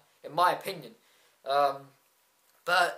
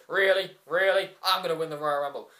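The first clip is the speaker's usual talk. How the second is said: lightly imitated cocky wrestler catchphrase; two punched questions, then a quick mock boast; The Miz; 4 dB louder than usual. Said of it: "The Miz who comes down and goes".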